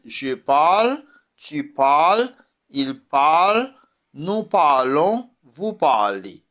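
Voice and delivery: je parle to vous parlez recited as a drill; teacher drill, French conjugation; repeated French drill. Shown as a demonstration. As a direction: recite the conjugation a second time, clearly. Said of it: "Voy a repetir".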